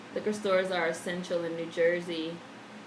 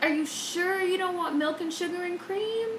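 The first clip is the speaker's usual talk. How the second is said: imitating older cashier; 9 semitones higher than usual. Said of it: "She used to be like".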